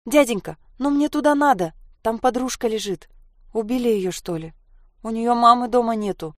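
put-on high, anxious child's plea; pleading little girl. Sasha pleads with the fox-hat man to let her through.

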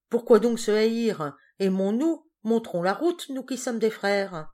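rally the crowd with it; declaiming. A narrator's reading. Rousing speech to the crowd.

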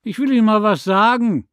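high, loud retort; loud call. A narrator's reading. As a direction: shout it back. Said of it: "rief sie".

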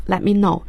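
"Let me know" with no released T in "Let"; silent T. Shown as a demonstration. Teacher demonstrating the expression for radio learners, "Let me know" with silent T. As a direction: swallow the T, running "Let" straight into "me". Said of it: "T是不发音的".

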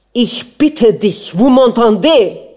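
a prince suddenly screeching at his wife, loud and high; shrieking. A narrator's reading. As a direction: shriek the French at her. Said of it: "kreischte er plötzlich auf".

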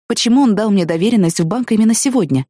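ordinary talk

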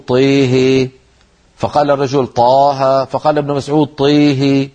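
"طيه" said with vowels leaning to e, teeheh; with imala. Retold or imitated. Ibn Masud correcting the man with imala. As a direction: tilt the a toward e. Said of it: "فقال له ابن مسعود".

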